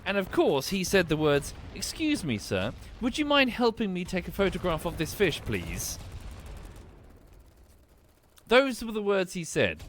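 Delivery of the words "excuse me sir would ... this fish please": mock polite. Brother supposedly asking a nearby angler for a photo, mock polite. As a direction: politely put request in a higher voice. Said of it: "he quite politely turned round".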